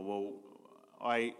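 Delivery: normal talking voice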